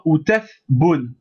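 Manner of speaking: outath boun drawn out, syllable by syllable; slow syllable drill. Shown as a demonstration. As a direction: outath boun stretched slowly for the class. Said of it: "Donc on va dire". (outath boun très lentement, syllabe par syllabe)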